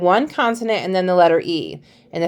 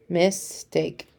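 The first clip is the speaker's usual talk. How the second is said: soft modelling; 9 dB quieter than usual. Shown as a demonstration. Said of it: "teacher models word".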